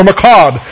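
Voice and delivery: macabre said as mah-KAHB, the Hebrew word. Shown as a demonstration. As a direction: macabre voiced like a Hebrew term, falling. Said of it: "Jeremiah fifty-one eight says".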